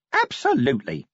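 the imp overselling its promise; eager imp. Acted.

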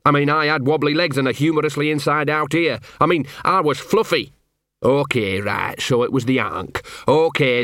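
a hint of a gruff, put-upon street dog; grumbling self-pity, lightly voiced; lightly voiced scruffy dog. Gaspode telling Carrot his sad life, lightly grumbling.

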